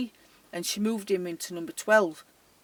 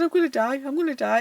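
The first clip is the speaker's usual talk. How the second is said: raised, louder imitation of a panicking colleague; mock panic; 4 semitones higher, 4 dB louder, faster than usual. Precious fanning herself in chair, imitated panic. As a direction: act out her fright, half-laughing.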